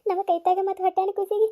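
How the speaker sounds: anxious village woman begging the doctor, a little high. Acted. (ವೈದ್ಯರನ್ನು ಬೇಡಿಕೊಳ್ಳುವ ಹಳ್ಳಿ ಹೆಂಗಸು)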